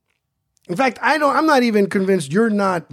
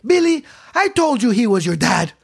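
raised, pointed declaration; mock loud announcement; 7 semitones higher, 3 dB louder than usual. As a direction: yell it for the teacher to hear. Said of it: "She yelled it so loud".

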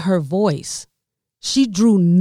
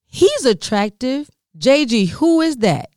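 mother admiring; 6 semitones higher than usual. Retold or imitated. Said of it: "she said".

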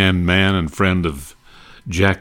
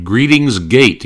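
Colonna greeting; 5 semitones higher, 5 dB louder, slower than usual. Retold or imitated. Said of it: "he would say to Bob Hope".

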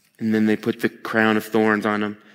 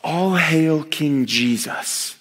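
mocking; 3 semitones higher, much slower than usual. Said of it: "They say it mockingly".

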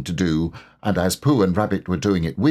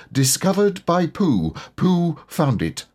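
proud notice; 8 semitones higher than usual. A narrator's reading. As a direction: announce it like a proud sign. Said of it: "a notice which said".

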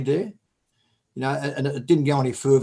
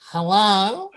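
wary hello; 4 semitones higher than usual. Shown as a demonstration. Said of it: "So I answer it like this".

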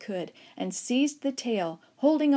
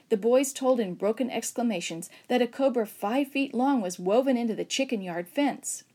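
plain reading voice

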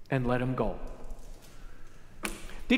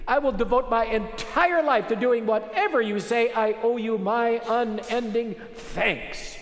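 pitched up, pouring out thanks to the king; a forgiven servant overflowing with gratitude, voice raised high; grateful servant pleading; 6 semitones higher than usual. Acted. Servant thanks the king on his knees, high tearful gratitude. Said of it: "and look him in the face and say".

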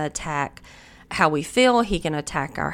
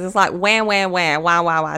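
mock whining; 4 dB louder than usual. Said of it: "sounds like whining".

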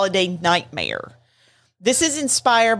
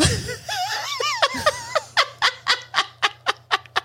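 long laugh. Real, not acted. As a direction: burst out laughing.

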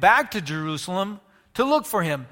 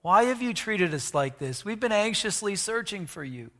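softer, heartbroken mother's plea; hurt and heartbroken; 5 dB quieter than usual. Retold or imitated. Mary pleading with her runaway son, heartbroken. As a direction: let the hurt sink the words down. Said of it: "I know Mary was hurt".

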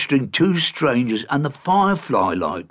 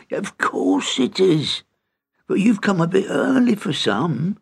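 raised cheerful gruff voice; 7 semitones higher than usual. A narrator's reading. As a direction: boom it out friendly. Innkeeper welcomes leprechaun.

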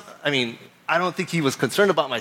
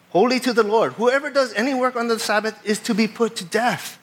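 raised, declaimed Bible reading; emphatic scripture reading; 6 semitones higher than usual. Acted. Preacher reading harsh Sabbath law to congregation, emphatic recitation. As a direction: read the law out with stern emphasis.

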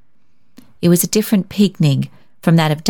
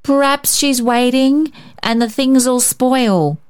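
put-on higher, slow little boy pleading; child's plea; 8 semitones higher, slower than usual. A narrator's reading. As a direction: let a small boy beg slowly, hoping. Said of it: "He made one more plea".

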